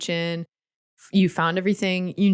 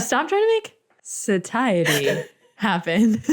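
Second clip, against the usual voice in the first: laughing; 4 semitones higher, slower than usual. Real, not acted. Echoing the joke.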